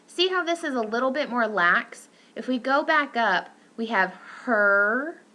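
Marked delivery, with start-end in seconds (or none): 3.8-5.2 her slow with a tense er; tense er demo. Shown as a demonstration. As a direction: draw out the er in her. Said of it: "which is more tense than mother".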